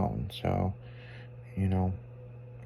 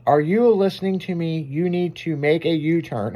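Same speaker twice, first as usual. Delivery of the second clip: higher-pitched, mildly scolding satnav; mock screaming GPS; 4 semitones higher than usual. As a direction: imitate a bossy navigation voice. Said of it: "It sounded like it's fucking screaming at me".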